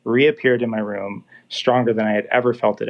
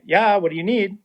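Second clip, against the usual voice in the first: higher, irritated call through the shower door; annoyed reply; 8 semitones higher than usual. Retold or imitated. Calling out annoyed from the shower at the interrupting voice. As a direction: snap back a second time, fed up. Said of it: "really annoyed".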